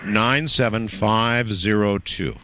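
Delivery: slow, digit by digit; slow dictation. Real, not acted. Host gives caller a zip code to write down, slow dictation. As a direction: space out each number for someone writing.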